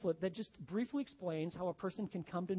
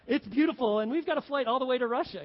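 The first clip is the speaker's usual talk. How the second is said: ironic outburst; 5 semitones higher, 8 dB louder than usual. Real, not acted. Ironic story of awkward flight.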